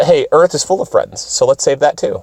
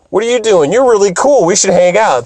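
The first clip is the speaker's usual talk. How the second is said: put-on higher friendly girl voice; eager to make friends, pitched up; Jupiter; 8 semitones higher than usual. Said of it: "Jupiter's like".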